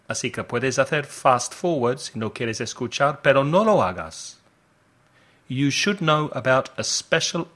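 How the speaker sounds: upbeat radio promo voice, selling the offer; advert read. Acted. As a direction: pitch the special offer like a radio spot.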